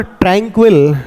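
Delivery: ट्रैंक्विल said with a short i, "TRANK-vil"; teacher models ट्रैंक्विल as "trank-vil", not "trank-vile"; correct pronunciation. Shown as a demonstration. Teacher shows students the right way: ट्रैंक्विल as "trank-vil". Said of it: "ट्रैंक्वाइल नहीं पढ़ेंगे".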